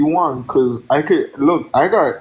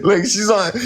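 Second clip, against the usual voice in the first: laughing; 4 semitones higher than usual. Real, not acted. Gushing while cracking up.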